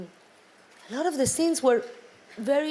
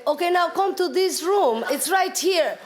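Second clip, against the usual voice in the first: lightly voiced director, higher pitch; mock director's order; 6 semitones higher than usual. Actress imitating her director calling her to the room, mock order. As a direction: call it out like a director giving orders.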